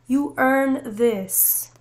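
You earn this, each word stretched slowly; a slow, deliberate declaration; slow, drawn-out emphasis. Shown as a demonstration. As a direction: let "earn" sink in, very slow.

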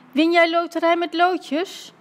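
high, drawn-out eager question; excited calling out. A narrator's reading. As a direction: call the question out high and slow. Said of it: "riep Dummy". (hoog roepende, opgewonden vraag)

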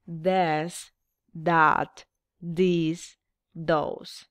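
"This, that, this, those" spoken one by one, each word said clearly with a pause; teacher modelling "This", "that", "this", "those" for the class to hear; each word separate and clear; model pronunciation. Shown as a demonstration. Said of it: "Escuchen la pronunciación nuevamente".

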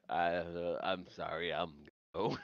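low, very soft, halting mumble; acting a quiet, stammering retreat; mumbled awkward apology. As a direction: trail off in a hushed, sheepish apology. Acts Stefan's awkward apology and exit.

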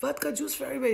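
high-pitched call to the bar; calling out an order. Retold or imitated. Woman repeats her round to the bartender, calling out. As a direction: announce a round for everyone.

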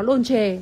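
"Dolce" said the Italian way, with a "ch" in the second syllable; Italian pronunciation. Shown as a demonstration. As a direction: say "Dolce" as Italian DOL-cheh. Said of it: "tiếng Ý đọc là". (đọc "Dolce" kiểu tiếng Ý, âm cuối là "chê")

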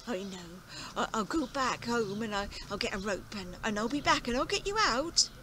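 put-on excited old farmer. Farmer's plan.

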